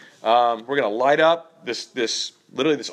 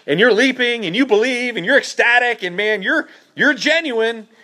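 higher, excited build-up, half-imitating the worshippers; mock ecstatic fervor; 8 semitones higher than usual. Preacher miming worshippers at the altar, excited and higher. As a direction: pump up the zeal like a leaping believer.

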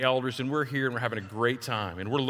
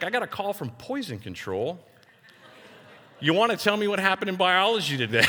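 higher-pitched mock mother confronting her kid; lightly voiced mom who already knows; imitated mom; 5 semitones higher than usual. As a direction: play a mom's pointed questioning. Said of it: "my mom's standing there in the kitchen".

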